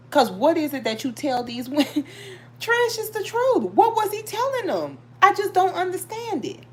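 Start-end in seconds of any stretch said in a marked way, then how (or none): 2.6-6.6 incredulous. Real, not acted. Baffled at the women.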